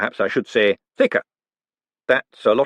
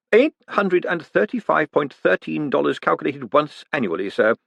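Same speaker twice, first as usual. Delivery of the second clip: calm; 4 semitones higher than usual. Acted. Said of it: "said Bent calmly".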